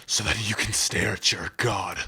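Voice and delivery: understated bitter vow of revenge; measured, bitter warrior's threat. Acted. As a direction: swear vengeance through simmering resentment. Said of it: "Well, someone sounds bitter".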